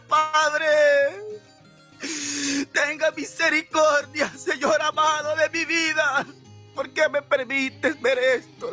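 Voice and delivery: anguished retold prayer; pleading. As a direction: beg God for mercy, drawing out the cry. Retold plea to God for mercy. (súplica angustiada recreada)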